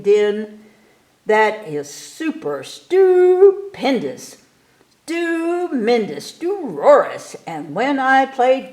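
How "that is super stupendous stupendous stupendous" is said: slow, drawn-out stupendous, the second one pitched much higher; showman's rave. Acted. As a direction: savour each stupendous like a circus barker. Ringmaster raving about his show.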